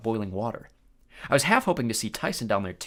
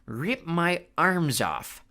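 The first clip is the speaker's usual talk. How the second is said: slow amused Cyclops; 6 semitones higher, much slower than usual. Acted. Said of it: "Polyphemus repeated".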